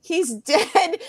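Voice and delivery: high, plaintive lament breaking into a laugh; comic retold grief; mock sobbing. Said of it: "I'm sobbing".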